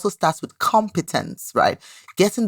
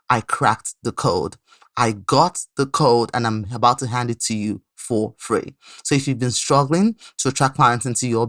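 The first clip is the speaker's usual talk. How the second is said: measured, lower-pitched promo voice; scripted ad read; 3 semitones lower than usual. Acted. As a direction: pitch it to struggling coaches, deliberate and emphatic. Reads a recorded promo.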